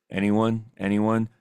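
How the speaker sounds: lightly imitated droning monotone teacher; deadpan roll call with no life in it; a hint of the bored economics teacher; Ferris Bueller teacher. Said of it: "or the teacher from Ferris Bueller's".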